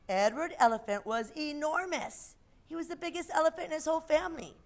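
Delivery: put-on lively storybook voice for kids; reading to children. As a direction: read a picture book aloud.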